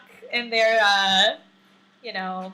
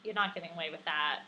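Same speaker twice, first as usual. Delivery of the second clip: quiet refusal; 6 semitones lower, 13 dB quieter than usual. Retold or imitated. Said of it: "I'd be like".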